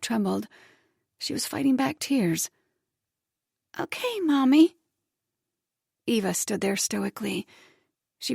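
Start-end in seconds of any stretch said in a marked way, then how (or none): 3.8-4.8 high, small, hurt voice; tearful little girl. Acted. Little girl fighting tears, small high voice. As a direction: swallow the tears.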